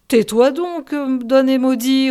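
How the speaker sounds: loud, sharp scolding; rebuke. A narrator's reading. Superstitious pilot scolding the sailor, loud rebuke. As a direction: shut him up before he tempts the devil.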